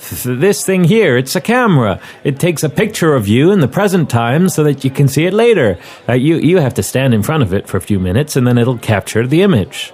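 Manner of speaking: lightly put-on generic American accent; a hint of an international accent, explaining patiently; generic international male. Photographer explains his camera to a stranger, lightly put-on American accent. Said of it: "generic international male accent".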